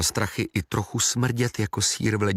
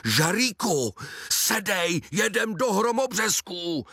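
bossy aunt; 11 semitones higher, slower than usual. Acted. Bossy aunt orders boy.

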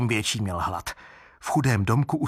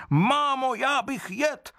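put-on much higher, childish wooden baby whine; a greedy little creature begging for food; hungry baby crying out; 14 semitones higher, slower than usual. Wooden baby demands food from his mother, high and whining. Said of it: "křičel Otesánek svou písničku".

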